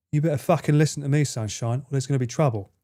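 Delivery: low-key threat in a rough London accent; not-posh menacing accent. Shown as a demonstration. Trying to scare someone, rough London accent. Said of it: "Unless you wanna scare someone".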